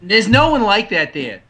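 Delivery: mock Boston accent, slowed down; fake Boston accent. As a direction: put on a Boston accent, dropping the r's. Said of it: "make up a fake Boston accent".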